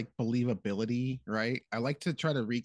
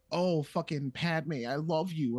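whiny lovesick Anakin; 3 semitones higher, slower than usual. Retold or imitated. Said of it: "instead of just having him be like".

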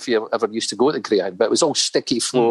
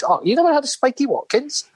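pitched way up, incredulous; mock disbelief; 12 semitones higher than usual. Friend in Bangkok, amazed Dave doesn't know Spiky, high disbelief. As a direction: act amazed he's never heard of him.

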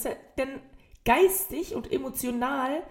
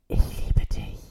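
hammed-up whispered love confession; voiceless, theatrical whisper; 8 dB louder than usual. A narrator's reading. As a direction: whisper it like a melodramatic romance reading. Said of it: "flüsterte er".

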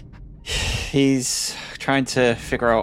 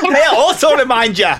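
put-on higher, laughing Scottish accent; 13 semitones higher, 8 dB louder than usual. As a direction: stay in the Scottish voice. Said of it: "We're still in the accent".

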